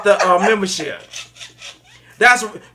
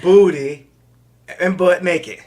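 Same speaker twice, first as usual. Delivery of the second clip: mock dictation; much slower than usual. Host dictates words for note-takers.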